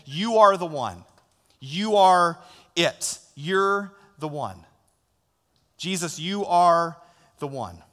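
slow, devoted declaration; sincere worship. Pretend. Pastor voices worshippers telling Jesus he is the one, slow. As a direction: say it like a vow of love.

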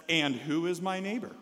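mildly snarky retort; a little sass. Acted. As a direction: ask it with understated snark. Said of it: "A little bit of sass, a little bit of sarcasm there".

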